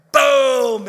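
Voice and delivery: high loud shout of boom. Retold or imitated. Grandfather acting out the crash on the table, shouting. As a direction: belt out the crash.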